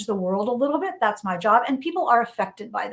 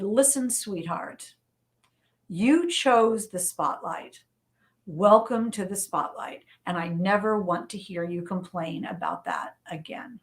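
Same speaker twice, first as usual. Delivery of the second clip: mom's firm advice; 3 semitones lower than usual. Retold or imitated.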